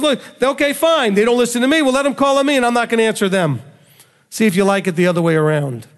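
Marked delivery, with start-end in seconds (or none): 0.0-3.6 higher, exasperated "okay, fine"; a hint of a fed-up parent turning the tables; mildly sarcastic divine retort; fed-up God. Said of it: "He says".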